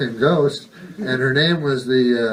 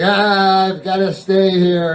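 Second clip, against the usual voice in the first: moaning ghost, a bit louder; whiny ghost; 4 semitones higher, 3 dB louder, slower than usual. Retold or imitated. Ghost complaining it must stay, loud whiny moan. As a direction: groan it like a bored ghost. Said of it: "They're always like".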